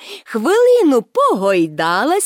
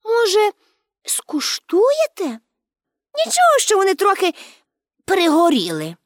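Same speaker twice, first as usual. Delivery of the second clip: put-on high, friendly girlish offer; 7 semitones higher than usual. A narrator's reading. Pippi offers policemen slightly burnt biscuits, friendly. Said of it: "приязно спитала".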